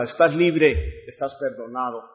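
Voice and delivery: gentle release. Acted. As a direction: release him gently, almost whispered. Lord releases the servant.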